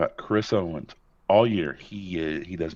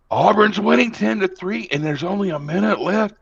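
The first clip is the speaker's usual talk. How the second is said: imitating his wife; 14 semitones higher, 4 dB louder than usual. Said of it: "came upstairs".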